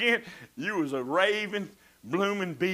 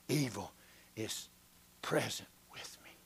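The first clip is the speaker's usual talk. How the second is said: softer and softer into a whisper; fading to whisper; 8 semitones lower, 9 dB quieter than usual. Acted. Preacher fading the verse into a whisper. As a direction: let the words die away.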